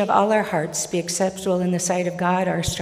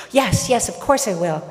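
eager agreement; 3 semitones higher, 5 dB louder than usual. Acted. Healed man promises Jesus, eagerly. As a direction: agree in an excited rush of feeling.

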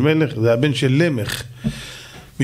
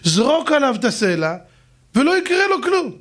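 much higher, light advisor voice; calm clever advisor; 12 semitones higher than usual. Acted. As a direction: shrug it off like it's easy. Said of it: "אמר לו".

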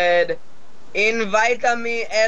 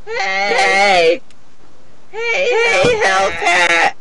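shouting; much slower than usual. Pretend. Calling out to a player.

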